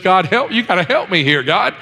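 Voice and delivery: mildly frantic retold plea, no real sobs; retold tearful plea. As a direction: mock-desperate prayer, pitch climbing. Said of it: "she's crying and boo-hooing".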